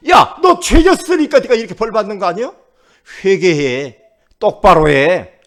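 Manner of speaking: loud scolding mockery; jeering. Friends accusing suffering Job of sin, loud jeering. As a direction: berate him like an accusing friend. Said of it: "친구들이 조롱을 해요".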